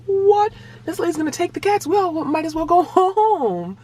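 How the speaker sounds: high-pitched, exaggerated dismay; mock disbelief. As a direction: act out the line's indignant letdown. Mock reaction of waiting families.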